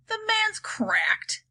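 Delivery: breathy high whisper aside. Acted. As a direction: hiss it behind his back.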